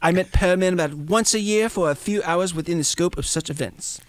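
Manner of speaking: the German man playing down the friendship; a hammed-up German accent; terrible German accent. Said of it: "It's my terrible German accent".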